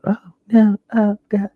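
high, breathy victim's cry fading to a whisper; mock terrified gasp. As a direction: play the panicked victim, half-whispered. Victim in shower scene voiced.

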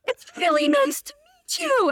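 very high, squealed greeting; overexcited mock yell. Starstruck woman greeting her idol in the elevator, squealed mock yell. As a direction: gush helplessly like a starstruck fan. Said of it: "just yelling at him".

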